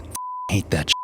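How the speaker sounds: whispered grumble under breath; muttered curse. Real, not acted. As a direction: mutter it to yourself. Narrator mutters a curse aside.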